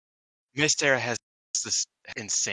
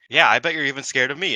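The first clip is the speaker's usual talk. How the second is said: mock taunt; 7 semitones higher, 10 dB louder than usual. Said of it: "and she's like".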